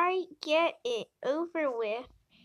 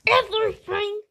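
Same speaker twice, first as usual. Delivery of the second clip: dramatic wail; 7 semitones higher, 7 dB louder, faster than usual. Acted. Dramatic cat answer.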